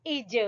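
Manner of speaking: اج with a bounced, released j; qalqalah. Shown as a demonstration. Teacher spelling with zer, qalqalah bounce on اج. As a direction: let the final j of اج rebound. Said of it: "حروف قلقلہ میں سے۔".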